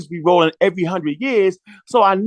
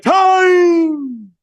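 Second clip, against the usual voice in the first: sharp, much higher shouted call; mock timekeeper call; 11 semitones higher, 4 dB louder than usual. Imitating the timekeeper cutting him off, shouting. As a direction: bark it out like cutting someone off. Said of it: "they'd be like".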